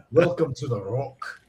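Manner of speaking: lightly voiced Scottish film star; understated mock-Scottish actor voice; Sean Connery. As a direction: give a Scottish screen-legend impression. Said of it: "I can voice Sean".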